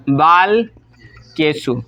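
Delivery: बालकेषु stretched out very slowly; slow dictation. Shown as a demonstration. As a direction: spell out बालकेषु slowly for the class. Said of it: "तो हो जाएगा क्या?". (बालकेषु को धीरे-धीरे खींचकर बोलें)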